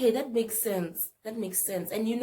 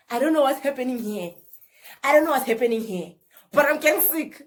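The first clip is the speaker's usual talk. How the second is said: louder, higher, rushing protest; rising panic; 3 semitones higher, 7 dB louder than usual. Retold or imitated. To her brother as the trance starts, loud panicked protest. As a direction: push the words out in growing alarm.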